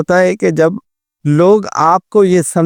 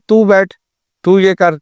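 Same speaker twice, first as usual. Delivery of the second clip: put-on bossing the child around with a mild bark; rude command; 2 semitones higher than usual. Parent ordering child rudely, slightly raised curt tone. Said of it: "پھر جب".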